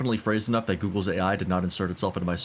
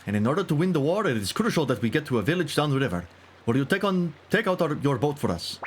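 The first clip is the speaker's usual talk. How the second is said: a touch raised, earnest recruit; lightly voiced hero; 6 semitones higher than usual. Asking the villager for his boat, lightly voiced.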